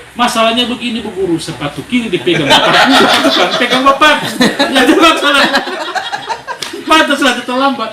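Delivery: pupil's excuse told through laughter; laughing through joke. Retold or imitated. Preacher tells congregation the late pupil's excuse, laughing. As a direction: chuckle while telling the punchline.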